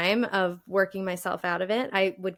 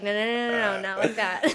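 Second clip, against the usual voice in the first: rapid string of no's, breaking into laughter; brain's hurried correction. Retold or imitated. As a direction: playfully cut yourself off with quick no's. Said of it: "my brain's like".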